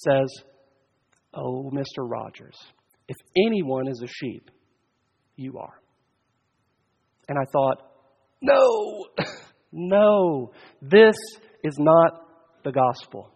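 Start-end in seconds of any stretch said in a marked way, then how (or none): 1.3-5.8 soft, gently lowered reassurance; loving. Retold or imitated. Wife reassures Mister Rogers he is a sheep, lovingly. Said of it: "very lovingly". 8.4-13.3 exclaimed protest. Retold or imitated. Preacher recalls his reaction to the story, exclaimed protest.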